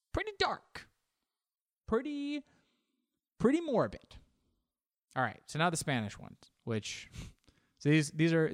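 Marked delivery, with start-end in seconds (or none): 0.1-4.2 high, thin mock-eerie pretty dark; a comic falsetto for a dark thought. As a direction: squeak it out in a falsetto. Mock spooky comment.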